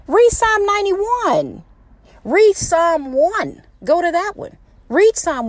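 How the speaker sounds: high, slow, urgent exhortation; passionate near-yell. Real, not acted. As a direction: call it out slowly, urging them to read. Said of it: "sorry if I'm yelling into my phone".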